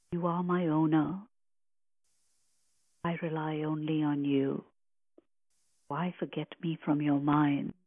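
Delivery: soft, reverent recitation; hushed devotional reading; with great reverence. Acted. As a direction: offer the line humbly, like a prayer. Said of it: "I say the next line with great reverence".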